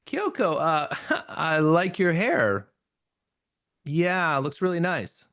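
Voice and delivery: a slow, giggly, hesitant compliment; awkward laughing compliment. Shown as a demonstration. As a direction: giggle through it, unsure. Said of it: "You can hear the voice tone change".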